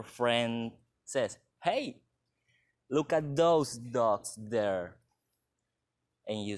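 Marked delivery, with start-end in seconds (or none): 1.6-5.0 slow, emphatic call with a raised "Hey". Acted. Friend pointing out dogs in the park, calling out. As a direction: draw a friend's eye to the dogs, slowly. Friend's line in classroom example.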